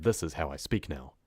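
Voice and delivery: brisker, direct delivery. Shown as a demonstration. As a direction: say it straight at them. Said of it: "changed the rate at which I speak, and I'm way more direct".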